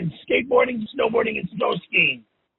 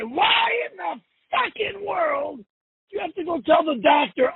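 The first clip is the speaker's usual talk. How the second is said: angry shout; 6 semitones higher than usual. Real, not acted. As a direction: demand it, furious. Angry rant at Tom.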